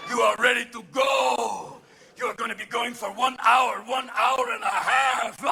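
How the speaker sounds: hype announcer. Pretend. Viagra hype.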